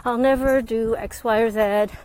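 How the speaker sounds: lightly put-on resigned voice; mock excuse-making. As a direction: act out shrugging off the problem. Voicing people's self-limiting excuses.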